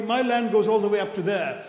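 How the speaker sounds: lightly voiced proud farmer, bragging; proud boast. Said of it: "the Indian says proudly".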